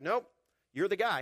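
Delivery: God insisting Moses is the one; insistent God. Retold or imitated. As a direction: refuse to let him off the hook. God voiced arguing with Moses.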